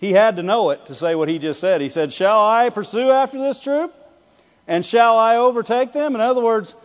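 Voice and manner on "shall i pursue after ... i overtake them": raised-pitch, keen questioning; eager, rising questions; encouraged eagerness. Acted. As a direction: ask like someone encouraged and ready to go. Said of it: "that's somebody that's encouraged".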